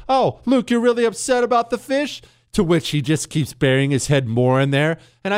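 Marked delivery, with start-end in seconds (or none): 0.1-2.2 mock sympathy. Dad feigning sympathy to crying son.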